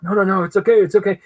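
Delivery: high-pitched, hurried reassurance; embarrassed, flustered. Retold or imitated. Fan excusing the famous artist's apology, flustered. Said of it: "so I'm embarrassed".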